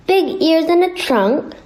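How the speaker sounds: high, outraged shout; indignant shout. A narrator's reading. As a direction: toss it back in disbelief. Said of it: "shouted the rat".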